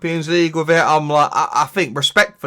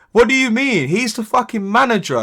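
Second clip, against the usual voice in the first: higher-pitched indignant rant; indignant retort; 3 semitones higher than usual. Retold or imitated. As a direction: argue back at the critics in disbelief. Indignant retort to online commenters.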